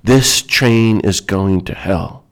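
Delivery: slow, stern voice from heaven. Retold or imitated. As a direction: deliver it as a slow, measured, stern warning. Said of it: "say very sternly".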